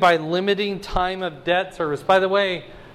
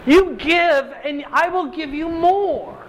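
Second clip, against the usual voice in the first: lightly voiced God, higher and promising; a hint of God's own voice making a promise; God speaking; 9 semitones higher than usual. Preacher voicing God's promise to the congregation, lightly raised. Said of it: "God says".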